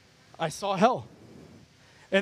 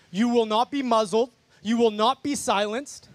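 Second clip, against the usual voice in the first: preaching declaration. Real, not acted. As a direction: declare it over the crowd with force.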